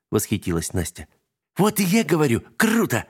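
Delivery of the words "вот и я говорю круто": высокий звонкий детский голос; подхвати с восторгом. A narrator's reading. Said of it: "тут же подхватила Алинка". (Алинка радостно подхватывает за Настей)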